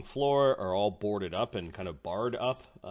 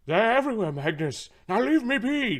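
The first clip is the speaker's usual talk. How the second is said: high frantic paranoid yell; frantic shout; 12 semitones higher, 10 dB louder than usual. Acted. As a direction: shout the warning in panic. Paranoid NPC shouting warning.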